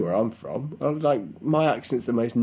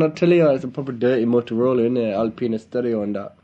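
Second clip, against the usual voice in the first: put-on British Asian accent; faster than usual. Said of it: "give the listeners an example of that".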